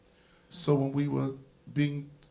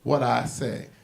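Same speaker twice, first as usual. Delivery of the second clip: chastising parent; 3 dB louder than usual. Retold or imitated. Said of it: "they chastised their children and said".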